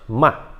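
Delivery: "Ma" short and dry, dropping at once; forceful, quick fall on "Ma"; strong falling tone. Shown as a demonstration. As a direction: drop "Ma" sharply from the top. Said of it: "Então é forte".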